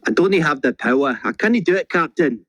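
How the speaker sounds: rising intense plea to the captain; urgent Star Trek line on request; excited and intense. Shown as a demonstration. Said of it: "say in a very excited and intense way".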